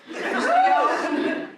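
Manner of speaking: high, slow laughing squeal; giddy. Retold or imitated. Divorcee planning her fresh start, high giddy squeal. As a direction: squeal it with glee. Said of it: "I was like".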